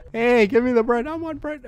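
high, whiny plea for it; playful demanding. Pretend. Player chasing free bread in heck, demanding. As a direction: beg eagerly, pitch climbing.

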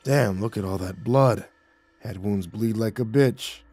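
exclaiming. Acted.

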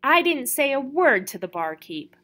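indignant, hurt denial; aggrieved tone. A narrator's reading. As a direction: sound unfairly accused. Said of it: "in an aggrieved tone".

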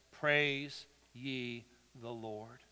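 very slow, low and soft; hushed reverent praise. Shown as a demonstration. Preacher showing how the body of Christ praises, hushed and slow. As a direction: draw each word out quietly.

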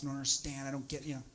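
soft, meek plea to the boss; pleading employee. Retold or imitated. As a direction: beg quietly and helplessly. Fired woman pleading with boss.

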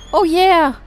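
loud, high "oh yeah"; excited cheer. Real, not acted. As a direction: shout it in triumph. Reached checkpoint while chased.

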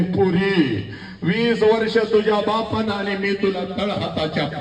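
imitated mother's lament; acted tearful parting plea; mother's wail. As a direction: plead like a grieving mother, drawing out words. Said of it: "पहिला हंबरडा ... तुझी आई फोडते पोरी".

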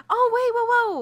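high, loud delighted whoa; excited gasp. Real, not acted. Gamer spots fruit on her tree, excited whoa. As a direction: blurt it out, thrilled at the find.

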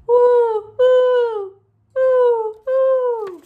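loud high hooting owl calls. Acted. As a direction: hoot like an owl. Imitating an owl for children.

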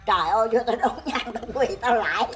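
words broken by laughter; laughing while telling. Real, not acted. Kể vừa cười. (vừa kể vừa cười)

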